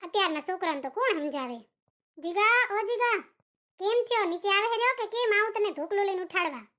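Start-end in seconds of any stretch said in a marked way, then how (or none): 2.2-6.6 calling out upstairs. Acted. Mother calling son downstairs.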